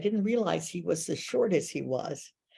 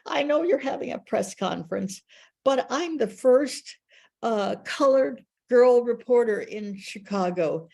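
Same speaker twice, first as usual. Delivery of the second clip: eager pitch; 4 semitones higher than usual. Retold or imitated. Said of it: "I said".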